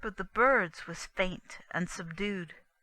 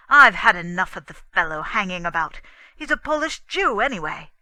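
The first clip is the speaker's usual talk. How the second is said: angry outburst; 11 dB louder, faster than usual. Acted. Husband rages at wife.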